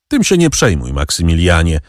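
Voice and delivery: a touch of a smile in the voice; lightly smiling reassurance. Acted. Count reassures Maksymilian with a light smile. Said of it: "rzekł z uśmiechem".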